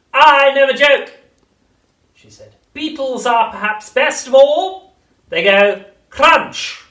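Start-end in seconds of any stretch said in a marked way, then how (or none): 0.1-1.1 witch voice. A narrator's reading. 2.7-6.8 high, slow crone voice; witch voice. A narrator's reading.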